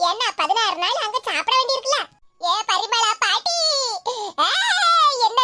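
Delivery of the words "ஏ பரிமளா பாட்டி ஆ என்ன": slow, drawn-out fake mourning cry; fake wailing. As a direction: put on a show of wailing for the granny. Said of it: "ஒரு சின்ன நடிப்பை போடுவோம்". (போலியான ஒப்பாரி அழுகை)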